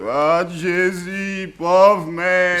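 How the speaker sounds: high, loud, drawn-out wail for the dead master; keen over the body, stretching every sound; wailing lament. Acted. (lamentation forcée pour le pauvre maître)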